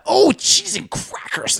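very high, slow prissy "oh, cheese and crackers"; mock prim exclamation. Joining the joke about fake swears, very high and slow. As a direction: squeal it like a prude who won't cuss. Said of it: "the fake swears instead of just".

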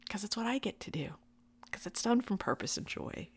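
quick soft whisper. Real, not acted. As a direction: hurry it out in a whisper. Soft aside after laughter.

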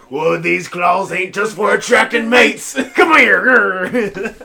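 high, loud cartoon shouting; SpongeBob meme quote. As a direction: holler it like a cartoon character on the attack. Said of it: "quote so many damn SpongeBob memes".

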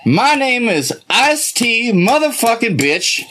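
mock rapper self-introduction. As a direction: draw out a boastful introduction.

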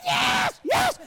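high, loud eager yes; captain shouts back eagerly, high and loud; excited yes. Retold or imitated. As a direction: answer like you can't contain it. Excited captain answers the call.

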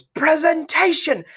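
arms-out, drawn-out villain fanfare; grand showman announcement. Retold or imitated. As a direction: sing it out like a stage villain unveiling himself. Villain unveils himself grandly.

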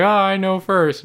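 high, slow know-it-all boast; mock the mom's smugness; smug mom imitation. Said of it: "and then she's like".

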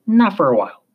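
put-on thick French accent, old salt; French sea captain. A narrator's reading. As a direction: answer as an unhelpful French captain. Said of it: "His French accent was thick".

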